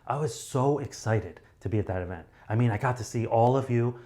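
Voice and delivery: bigger, livelier delivery for a crowd; mildly exaggerated stage enthusiasm; stage excitement. Shown as a demonstration. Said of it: "Whereas if I'm on stage, I would be like".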